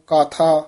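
"ਕਾਥਾ" said a little open and loose; slightly open pronunciation. Shown as a demonstration. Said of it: "ਥੋੜ੍ਹਾ ਜਿਹਾ ਪੁੱਲਾ ਹੀ ਬੋਲਣਾ".

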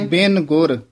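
ਬਿਨ ਗੁਰ, then a clear pause; pause after ਗੁਰ. Shown as a demonstration. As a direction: stop briefly after ਗੁਰ before going on. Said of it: "ਇੱਥੇ ਵਿਸਰਾਮ ਲੱਗਣਾ". (ਗੁਰ ਤੋਂ ਬਾਅਦ ਵਿਸਰਾਮ)

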